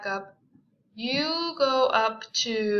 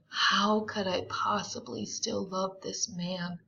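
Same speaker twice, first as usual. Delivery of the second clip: Daisy asking herself; 6 dB louder than usual. Shown as a demonstration. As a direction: voice her inner torment, then let it sink. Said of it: "a question she's saying to herself".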